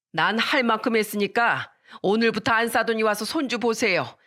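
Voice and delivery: 화난 외침. Retold or imitated. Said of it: "안사돈한테 소리쳤어요".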